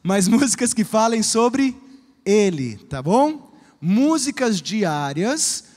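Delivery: laughing restart after the voice cracked. Real, not acted. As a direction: laugh it off and start again. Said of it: "Minha voz tá falhando, irmãos, o que tá acontecendo?".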